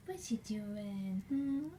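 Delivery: slow, breathy whisper to the pet. Real, not acted. Whispering slow to the pet bird at night. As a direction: hush it as if not to startle the bird.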